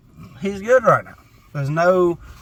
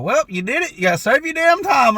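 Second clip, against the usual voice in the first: high-pitched mock mom, louder on the second line; imitating mom; 12 semitones higher, 6 dB louder than usual. A son mimics his mom refusing to pick him up, high and mocking. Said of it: "She's like".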